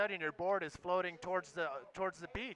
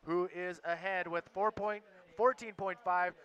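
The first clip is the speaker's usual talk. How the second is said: relaxed live heat update; laid-back surfer announcer. Acted. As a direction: call the standings, easygoing.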